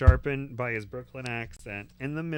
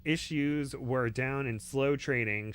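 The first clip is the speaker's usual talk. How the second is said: resentful; slower than usual. Acted. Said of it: "she said resentfully".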